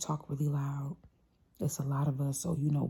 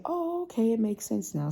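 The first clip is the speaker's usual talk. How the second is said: understanding reply; 6 semitones higher than usual. Retold or imitated. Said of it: "That person has to be willing to say".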